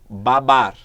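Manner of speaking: "Babar." said loud, syllables split apart; syllable demo. Shown as a demonstration. Teacher showing syllables to the class. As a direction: split "Babar." into two strong beats. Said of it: "Olha o exemplo aqui".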